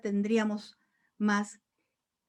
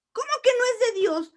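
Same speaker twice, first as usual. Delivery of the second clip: much higher, louder, near-tearful outburst; indignant cry; 9 semitones higher, 5 dB louder than usual. Real, not acted. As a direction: protest with a break in the voice. Indignant protest, crying heard.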